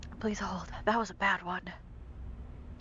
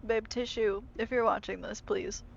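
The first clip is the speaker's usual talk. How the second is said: hiccups; 4 semitones higher than usual. Real, not acted. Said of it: "Oh, now I have the hiccups".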